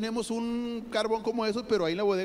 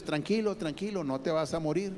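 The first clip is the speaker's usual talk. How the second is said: reassuring; 5 semitones lower than usual. Acted. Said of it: "Como diciéndole a Dios".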